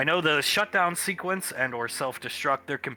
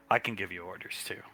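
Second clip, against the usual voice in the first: whispering; 4 semitones lower, 5 dB quieter, faster than usual. Acted. Commander's quiet warning.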